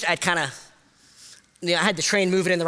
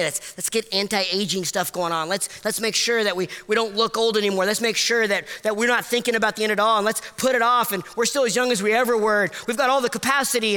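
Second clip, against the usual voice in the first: mocking; 3 semitones higher than usual. Mocking culture's denial of aging.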